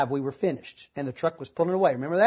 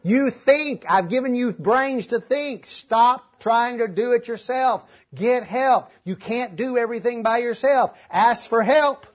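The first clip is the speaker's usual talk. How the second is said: the voice of God, louder and higher, firm but kind; still small voice; 4 semitones higher, 4 dB louder, slower than usual. Retold or imitated. Preacher voicing God's reply to his plea, gentle authority. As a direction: speak as the calm voice answering from above. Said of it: "that still small voice quietly say".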